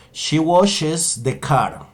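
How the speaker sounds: very slow, careful English for learners; slow model sentence. Shown as a demonstration. Teacher models third person washes slowly. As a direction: say it slowly, word by word. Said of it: "diré que ella lava el carro".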